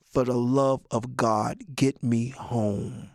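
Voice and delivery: put-on slow, pleading kid voice; timid white kid. Scared nerdy kid on the bus pleading slowly to get home. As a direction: beg under your breath to go home. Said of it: "In their mind, they're saying".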